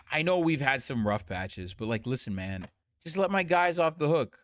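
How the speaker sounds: low-pitched mock cajoling; imitated coaxing plea. Politician asking the US to go easy, mock coaxing. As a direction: plead low, like talking a pal round. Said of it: "he's saying".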